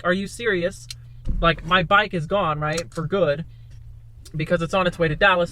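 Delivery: loud, exasperated retelling of his own outburst; pissed off. Retold or imitated. To Andrew, learning his stolen bike is gone for good, loud and exasperated. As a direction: let the anger out, loud and incredulous. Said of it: "So I'm pissed".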